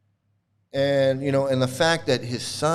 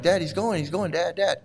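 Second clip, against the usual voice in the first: higher, repeated appeal to Dad; tattling son; 4 semitones higher than usual. Retold or imitated. Son urging dad to stop the passenger, mock tattling. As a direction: lightly voice a son pestering his father. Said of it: "he's telling his dad".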